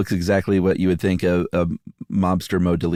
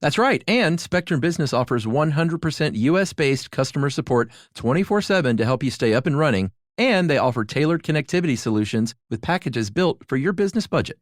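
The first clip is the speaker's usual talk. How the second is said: higher-pitched, upbeat commercial delivery; podcast ad read; 7 semitones higher than usual. Acted. Co-host adds selling points for business customers, upbeat ad read. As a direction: chime in brightly to sell the service. Reads a sponsor ad.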